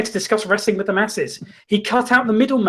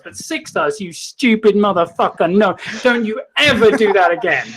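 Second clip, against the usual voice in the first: Kentucky drawl. Retold or imitated. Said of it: "he said in his Kentucky draw".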